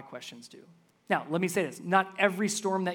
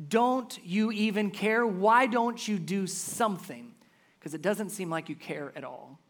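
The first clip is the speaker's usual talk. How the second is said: softer, hurt personal question; our own quiet plea; 2 semitones higher than usual. Retold or imitated. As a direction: ask it quietly, as your own prayer. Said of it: "what we ask him often".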